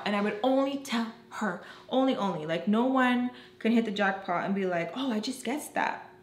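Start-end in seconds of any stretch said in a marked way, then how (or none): 5.0-6.1 airy half-whispered mimicry; high, whispery mock innocence; mock guess. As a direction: toss it off in a whisper. Mocking an impossible lucky guess.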